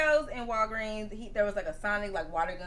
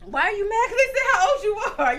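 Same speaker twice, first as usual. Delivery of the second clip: high-pitched questioning; 9 semitones higher, 4 dB louder than usual. Real, not acted. Teasing her small child about age.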